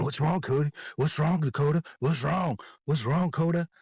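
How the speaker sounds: high, taunting mock singsong; mocking teacher. Teacher in my face taunting me, high mocking voice. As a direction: needle him with a high sneering what's wrong. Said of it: "is in my face, like, right in my face, saying".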